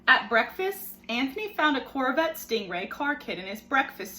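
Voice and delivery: put-on expressive read-aloud for children; story reading. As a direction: tell the story to a class of kids. Teacher reads picture book aloud.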